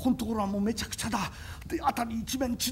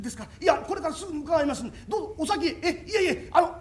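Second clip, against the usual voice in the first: flustered polite laugh; 2 semitones higher than usual. Acted. Flustered thanks to neighbors.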